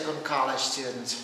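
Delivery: slow General American delivery; American accent. Shown as a demonstration. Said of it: "And American would say".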